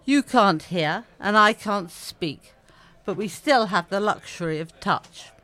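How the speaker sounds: slow, gentle poem recital; poem reading. Acted. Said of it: "So this is how it goes".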